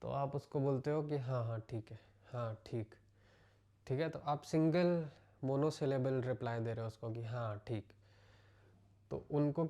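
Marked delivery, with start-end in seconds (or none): 1.2-3.0 curt reply. Shown as a demonstration. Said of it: "आपका थोड़ा सा मूड सही नहीं है". 7.2-7.9 short, offhand brush-off, a touch quieter; curt reply. Shown as a demonstration. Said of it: "आपने एक टर्स reply दिया उसको".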